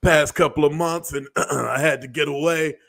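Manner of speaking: mock nervous celebrity apology, throat clearing; Will Smith impression. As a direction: play the awkward apology video, lightly voiced. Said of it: "Let me do my Will Smith impression".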